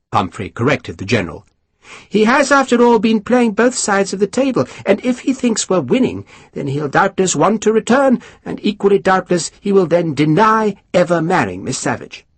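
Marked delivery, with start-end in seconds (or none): 2.1-12.3 high, mannered lord spreading gossip; high aristocrat voice. Acted. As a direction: lift the pitch, savour the scandal. Pumphrey reasons.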